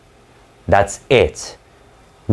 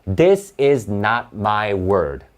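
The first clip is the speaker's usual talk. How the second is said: voicing the quoted writer; slower than usual. Shown as a demonstration. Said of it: "A quotation mark is just to say".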